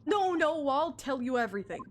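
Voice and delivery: high, loud panicked protest. Acted. Stowaway begging the officer not to throw him overboard, panicked. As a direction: blurt it out in sudden fear. Threatened with the ocean.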